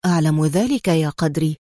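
low-pitched, composed reply; calm. A narrator's reading. Adham answering his excited friend Qadri, calmly. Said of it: "قال أدهم في هدوء".

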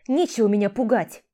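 loud, sharp retort; mock-furious yell as she strikes him; angry shout. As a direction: hit back with a shout.

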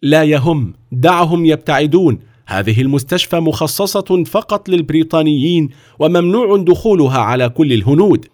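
high, dismissive brush-off; a careless director; indifferent. Acted. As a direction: wave them away as not worth your time. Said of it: "بلا مبالاة".

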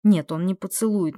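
plain reading voice

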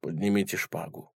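low, soft grudging words; grudging toy fencer, low and soft; gloomy. A narrator's reading. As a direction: say it darkly, against your will. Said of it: "мрачно произнёс".

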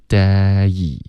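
DAY opening wide on eh, sliding to ee; wider day. Shown as a demonstration. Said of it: "嘴巴再张开大一点".

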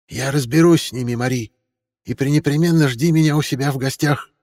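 high, assured woman's voice; confident friend. A narrator's reading. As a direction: speak up with confidence. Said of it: "продолжала уверенно Милотта".

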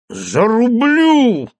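slow, loud, high threat; threatening. A narrator's reading. Teacher lunges at the mayor, threatening roar. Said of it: "грозил учитель".

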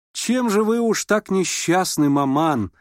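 cheerful daughter teasing mother; teasing question. A narrator's reading. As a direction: tease her mother. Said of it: "не утерпела Аделаида".

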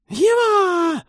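piercing, very high, loud shriek. Acted. Harpy Kai shrieking her claim on the boy. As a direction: screech it like a frenzied harpy. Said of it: "взвизгнула женщина".

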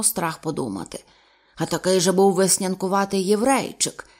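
a hint of a burly captain marvelling; gruff old sea captain. Captain marvelling at the lobby, lightly gruff.

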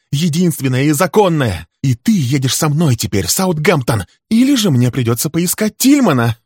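high, loud, raging accusations; furious tirade. Acted. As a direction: unload years of grievance at him. Wife threatens husband, enraged.

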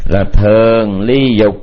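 slow dictation; measured, word by word; dictating. Real, not acted. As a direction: say it slowly so they can write it. Dictates second item for note-takers.

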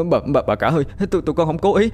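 kneeling servants beg forgiveness, voice climbing in terror; terrified stammering. A narrator's reading. Servants beg the dead wife's corpse, panicked stammer. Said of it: "miệng lắp bắp".

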